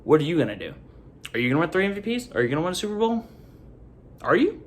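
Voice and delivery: challenging. Retold or imitated. Imagined fans challenging the successor.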